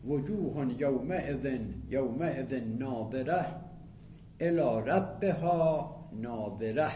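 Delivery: slow, measured Quranic chant; Quran recitation. Shown as a demonstration. Teacher recites verse to students, slow Quranic intonation. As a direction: intone the verse slowly, drawing out vowels.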